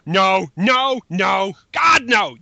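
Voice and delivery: exasperated no. Real, not acted. Rejecting one-emerald transformation.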